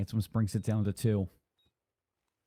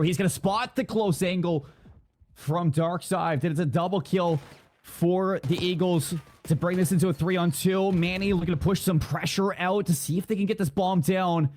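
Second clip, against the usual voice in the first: driving esports shoutcast delivery; live play-by-play; 7 semitones higher than usual. Real, not acted. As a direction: call the clutch as it happens.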